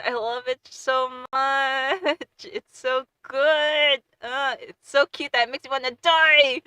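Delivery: overwhelmed by cuteness; swooning gush. Real, not acted. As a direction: melt over how cute it is. Gushing over cute webtoon.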